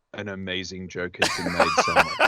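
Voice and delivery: mock-solemn dad making a proclamation; dad sensing a joke. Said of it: "dads around the world who just went".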